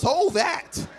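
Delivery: high, loud urging; urgent command. Acted. Father handing daughter Beats headphones, loud urgent command.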